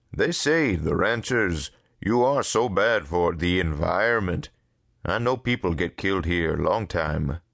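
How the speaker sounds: lightly voiced broken-English character; a touch of animated warning; Dupre. Dupre warns Harvey about the ranchers, lightly animated.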